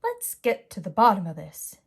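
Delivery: loud, gruff bear voice; papa bear leading the search; growling Daddy Bear. Acted. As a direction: growl with determination. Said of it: "Daddy Bear growled".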